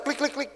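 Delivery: high, soft "clic, clic, clic"; light spoken clicking sound effect; imitated blinking clicks. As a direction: tick off three quick blinks, high and soft. Imitates eyes blinking in an instant.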